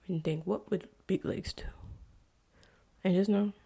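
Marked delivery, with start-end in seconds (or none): 0.1-1.6 whispered sign-off. Real, not acted. Closing words to listeners.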